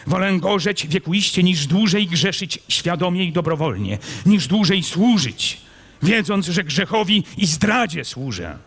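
high, fervent, impassioned vow; anguished knight. A narrator's reading. Kmicic declaring he would rather burn, anguished. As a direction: pour out the anguish to God.

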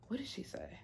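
whispered aside to yourself; hushed, absent-minded self-question; thinking aloud. Real, not acted. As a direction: whisper it while searching your memory. Asking herself while trying to remember.

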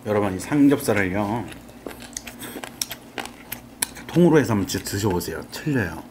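eating between words; talking while chewing. Real, not acted. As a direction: mouth partly full. Seen 0: Right speaker puts food to mouth at +0.2 and +2.3 while talking.

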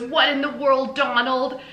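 high, loud put-on lady voice; shrill exclaiming wife. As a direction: squeal it like a flustered neighbour. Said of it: "She goes".

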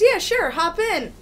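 casual as fuck. Retold or imitated. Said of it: "Casual as fuck".

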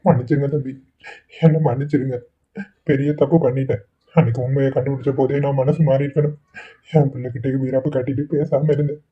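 begging forgiveness through tears; tearful apology. Acted. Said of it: "இப்படி அழுகாதீங்க".

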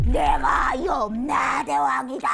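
slow, loud, booming proclamation; grand shout. Retold or imitated. The novice shouts that he is the King of Hell, slow and booming. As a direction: proclaim yourself king of the underworld. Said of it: "그러면서 뭐라 그러냐".

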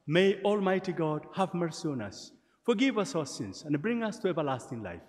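measured, chanted-like prayer cadence; liturgical prayer. Acted. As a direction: pray it out to the congregation. Leads the Gloria.

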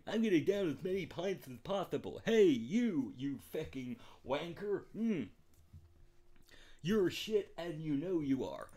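hammed-up cockney lout in the pub; mock cockney pub lad. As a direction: jeer like a drunk cockney bloke.

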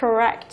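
"Correct" repeated on its own, stressed on rect; second-syllable stress. Shown as a demonstration. Teacher repeats a word many misread, "Correct" stressed on rect. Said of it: "không nhiều người đọc đúng được".

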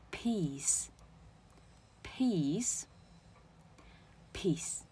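peace slowly, three times, long ee and soft hissed s; peace, drawn-out vowel, voiceless ending; model pronunciation. Shown as a demonstration. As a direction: model peace softly with pauses between. Teacher models word slowly, repeated.

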